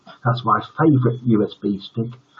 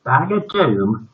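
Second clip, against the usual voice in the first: put-on high, suspicious boy's question; 6 semitones higher, 5 dB louder than usual. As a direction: squint at the bag and ask. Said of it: "asked the boy suspiciously".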